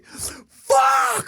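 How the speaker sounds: high loud frustrated yell; frustrated curse. Shown as a demonstration. Adult venting forgotten laundry with a high loud yell. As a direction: blurt it out in frustration.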